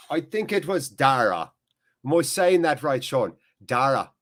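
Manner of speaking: tentative attempt at an Irish accent. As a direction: try out a light Irish lilt. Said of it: "trying to work on my Irish accent".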